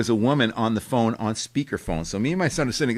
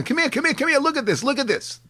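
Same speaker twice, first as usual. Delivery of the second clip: much higher eager calls to come look; excited calling; 13 semitones higher than usual. Retold or imitated. Father calling his son over to the TV, eager. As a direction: hurry him over, thrilled. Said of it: "saying to my son".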